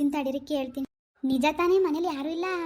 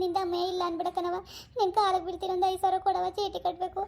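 higher, pleading with a teary edge; tearful pleading; 3 semitones higher than usual. Acted. Daughter begging mother for chit money, teary plea. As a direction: beg your mother for money, close to tears. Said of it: "ಇದ್ಯಾವ್ದವ ಹೊಸ ನಾಟಕ ನಿಂದು?".

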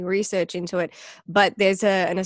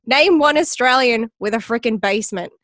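louder incredulous quip; retold comedian; 4 semitones higher, 5 dB louder than usual. Retelling a comedian's joke about basements, incredulous. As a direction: scoff at the idea, a bit louder. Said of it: "he's like".

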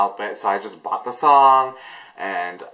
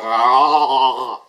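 drawn-out mock "ah"; put-on spaced-out groan; imitated dazed moan. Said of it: "She looks so high, she's like".

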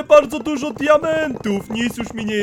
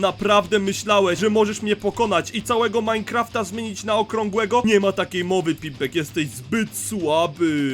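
villain boss; 3 semitones lower than usual. Acted. Triumphant giant taunting Pimpek.

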